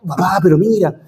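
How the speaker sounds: high, worked-up protest; pleading in rising agitation; agitated protest. Retold or imitated. Father justifying his outburst to his son, worked up. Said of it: "retold reply to son".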